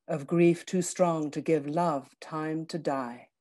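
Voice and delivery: measured verse recital with lilting stresses; formal, expressive poem reading; poetry reading. Acted. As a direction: recite it as solemn verse, pausing at line ends. Reads poem aloud after plain introduction.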